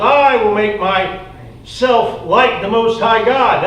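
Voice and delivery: slow, deliberate proud vow, lightly voiced; a hint of Lucifer's arrogance, drawn out; proud Lucifer boasting. Preacher voices Lucifer's boast to the congregation, slow and proud. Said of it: "you said in your heart".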